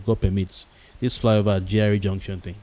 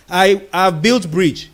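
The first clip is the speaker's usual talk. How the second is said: "built" drawn out slow and louder, higher; slow, stressed "I have built bridge"; 6 semitones higher, 5 dB louder, much slower than usual. Shown as a demonstration. Quoting officials, each word of "I have built bridge" drawn out. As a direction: spell out each word slowly. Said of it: "It's better than".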